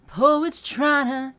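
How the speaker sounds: slow sung tryna, two words morphed; tryna merged. Shown as a demonstration. Coach showing tryna for students. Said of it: "I would say tryna".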